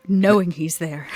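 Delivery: "Knowing" leaned on with a sly weight; pointed repeat. Acted. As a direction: stress "Knowing he's there" knowingly. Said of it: "repeats with emphasis".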